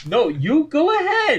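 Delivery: high, loud mock insistence; aggressively nice. Forcing the friend to continue the story, aggressively nice. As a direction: squeal the polite offer like an argument. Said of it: "most aggressive, like, being nice".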